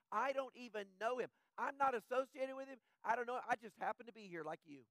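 lightly voiced defensive Peter; Peter denying. Peter insists to the crowd he's just a bystander, mildly defensive.

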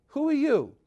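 sharp, high "who are you"; startled question. Retold or imitated. Husband meeting the angel, high startled challenge. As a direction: catch him off guard, pitch jumping up.

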